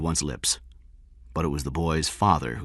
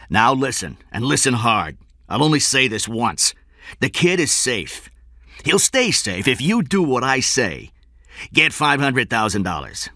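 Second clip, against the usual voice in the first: raised, forceful, deliberate kidnapper voice; menacing orders; 8 semitones higher, 5 dB louder than usual. A narrator's reading. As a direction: dictate terms that allow no argument. Kidnapper dictates ransom terms.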